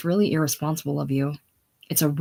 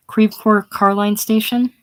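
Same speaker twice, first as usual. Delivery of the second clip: slow, louder, higher question; calling down the phone; 5 semitones higher, 5 dB louder than usual. Acted. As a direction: call it out slowly over a bad line.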